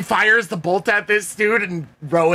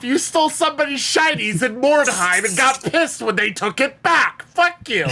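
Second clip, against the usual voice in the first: indignant rant; 4 semitones higher than usual. Acted. In-game outrage at the thief.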